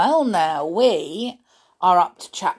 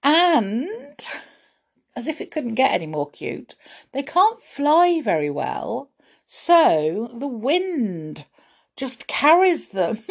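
gushing; 6 semitones higher than usual. Real, not acted. Gushing over cute fairy flies.

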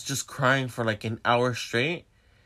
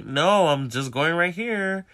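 higher, slow, drawn-out refusal; insistent refusal; 5 semitones higher, 3 dB louder, slower than usual. Retold or imitated. Refusing the ex's ride, insistent refusal. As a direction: stretch out an insistent no.

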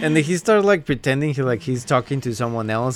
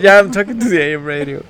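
quick excuse; 3 semitones higher, 5 dB louder, faster than usual. Retold or imitated. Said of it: "He's like".

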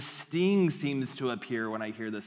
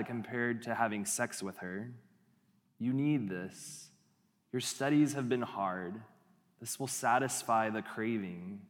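tempting inner voice; 3 semitones lower than usual. Acted. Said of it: "maybe it sounds a little bit like this".

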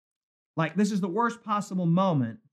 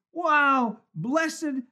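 higher, eager Saul boasting; a hint of a boastful king; Saul exclaiming; 6 semitones higher than usual. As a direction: play a smug Saul, pleased with himself. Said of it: "Saul exclaims".

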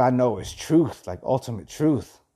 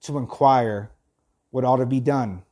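measured, deliberate reading with firm pauses; reading aloud. Acted. Host reads philosophy to listeners, measured reading aloud. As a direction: read it out phrase by phrase.

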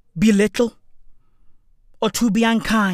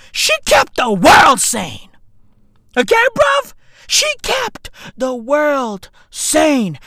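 slow loud eulogy; 4 semitones higher, 4 dB louder, slower than usual. Acted. Mock eulogy emphasis.

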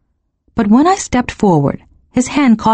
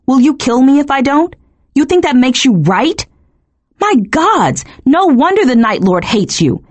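high-pitched, indignant tirade at normal volume; raging; 6 semitones higher than usual. A narrator's reading. Woman berating the fallen god who ordered her, raging. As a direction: pitch it up, firing outraged questions. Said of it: "I had run out of rage".

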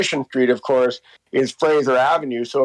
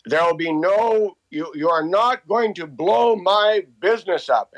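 a lightly voiced stubborn old man, pitched higher; half-hearted impression of an old fella digging in his heels; defiant old shoemaker; 5 semitones higher than usual. Old Dutch shoemaker refusing the film crew, lightly voiced defiant protest. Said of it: "he was defiant".

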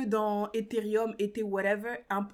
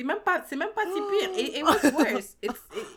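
words pitched up with laughter; laughing through words; 5 semitones higher, 5 dB louder than usual. Real, not acted. Admitting the loss to her friend, laughing.

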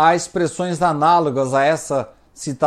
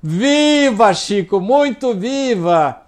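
higher, drawn-out mock-hearty "viva"; retold gleeful exclamation; 5 semitones higher, slower than usual. Lady jokingly reassures Chico she is alive, retold gleeful exclamation. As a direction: exclaim it as if answering through a big laugh. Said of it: "respondido dando gargalhada".

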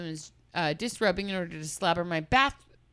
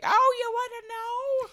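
mock sassy girl; 4 dB louder than usual. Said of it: "she was like".

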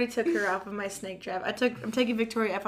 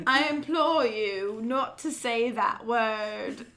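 slow, hammed-up Tennessee drawl; Tennessee accent; slower than usual. Joking retake of the dad's plea, slow mock Tennessee accent. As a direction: imitate a Tennessee dad, on the edge of laughing. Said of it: "in his Tennessee accent".

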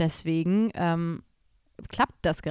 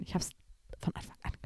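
fading to a whisper; trailing off; 4 semitones higher, 7 dB quieter, faster than usual. Retold or imitated. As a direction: let the quote die away into breath. Mock quote fading to unvoiced.

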